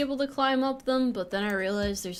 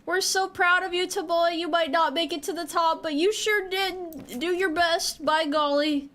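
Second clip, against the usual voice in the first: cheering fan; 6 semitones higher than usual. Retold or imitated. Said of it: "Nobody can be like".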